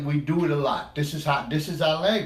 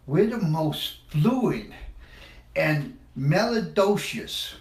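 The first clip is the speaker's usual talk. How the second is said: savoring the word; slower than usual. Shown as a demonstration. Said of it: "That's a great word, isn't it?".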